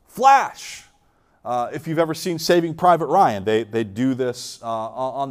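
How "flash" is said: high loud answering call; yelled response. Retold or imitated. Soldier answering the challenge, yelled back. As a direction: shout back the countersign, pitched high. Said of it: "wait for the response".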